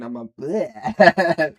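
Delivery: slow brain-melting "bleh" noise; mock brain-melt groan; drawn-out bleh. Shown as a demonstration. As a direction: let the "bleh" sag out like your brain is giving up. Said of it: "See what I mean?".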